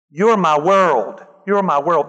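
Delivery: slow, sappy mock swoon; mocking a smitten thirteen-year-old; mock lovesick teen. Preacher mocking lovesick teenagers, sappy and slow.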